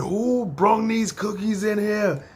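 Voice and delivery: slow, drawn-out imitation of a yell; mock holler without real volume; mock screaming. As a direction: stretch it out like a boss hollering. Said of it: "She's in there screaming".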